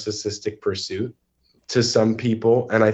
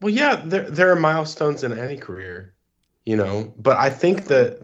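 hoarse from allergies; raspy, allergy-strained voice. Real, not acted. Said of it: "excuse my voice".

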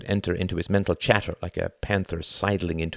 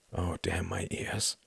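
slow, much softer muttered thought; inner thought; 9 dB quieter, slower than usual. A narrator's reading. Tom cursing his own ears, slow and soft. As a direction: grumble it quietly to himself. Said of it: "he thought".

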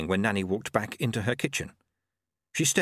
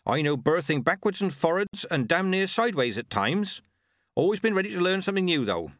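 put-on cheerful, high old countrywoman; chirpy village midwife; old witch voice; 8 semitones higher than usual. Nanny Ogg boasting.

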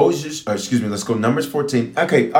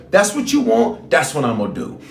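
sharp high God voice; 4 semitones higher than usual. Acted. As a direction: give it like God daring them. Preacher voicing God.

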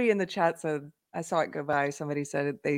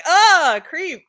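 mock fright; 11 semitones higher, 9 dB louder than usual. Imitated fearful reaction.

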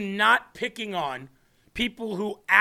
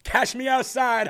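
laughing quote; 3 semitones higher than usual. Retold or imitated. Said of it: "Somebody wrote in there".

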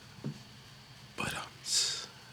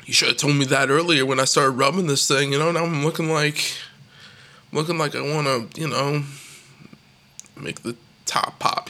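exasperated retort; 4 dB louder than usual. Retold or imitated. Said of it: "And I'm like".

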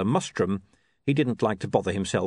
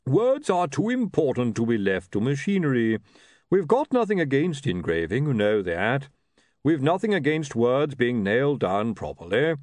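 higher, forceful, indignant voice; blustering chief priest; 5 semitones higher, 3 dB louder than usual. Acted. Hunon arguing to the patrician against movable type, blustering. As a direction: argue it with pompous conviction.

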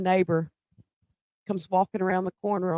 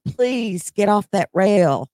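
slow, louder plea; a retold worried plea, slow and louder; retold pleading; 5 dB louder, slower than usual. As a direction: beg him to get off the rail. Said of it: "So I started asking him".

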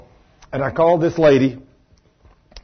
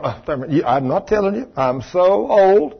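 mock coy woman; 3 semitones higher than usual. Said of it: "especially women".

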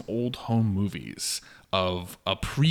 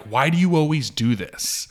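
gaslighting; 5 semitones higher, 6 dB louder than usual. Retold or imitated. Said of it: "he immediately starts gaslighting her".

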